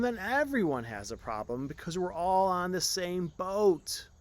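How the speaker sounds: loud, high desperate outburst; desperate cry. Acted. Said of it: "The prince cried desperately".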